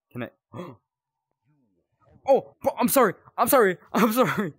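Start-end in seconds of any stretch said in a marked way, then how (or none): 2.3-4.5 high, loud flustered sorry; startled apology. Real, not acted. Gamer apologizing to a startled game figure, flustered.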